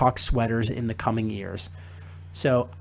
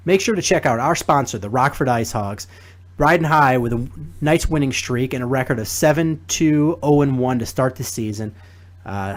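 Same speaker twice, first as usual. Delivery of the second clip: upbeat, louder radio spot read; sponsor ad read; 4 dB louder than usual. Acted. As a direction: sell the hockey night to listeners.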